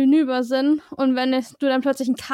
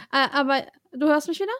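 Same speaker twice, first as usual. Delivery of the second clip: breaking up over a bad line; choppy connection; faster than usual. Real, not acted. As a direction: voice cutting in and out. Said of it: "du bist abgehackt gerade".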